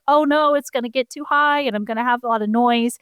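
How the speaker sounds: a touch of fretful alarm, imitated; mild retold panic. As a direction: lightly act out a beginner's panic. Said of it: "I started to panic".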